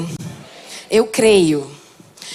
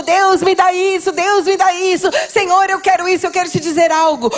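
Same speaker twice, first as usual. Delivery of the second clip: suplicando; 6 semitones higher than usual. Retold or imitated. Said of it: "tem muita gente que fica suplicando".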